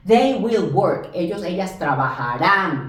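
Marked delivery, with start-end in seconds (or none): 1.8-2.9 trabajarán stressed on the last syllable; final stress. Shown as a demonstration. Teacher showing the ellos ending, trabajarán stressed on án. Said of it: "con acento en la A N".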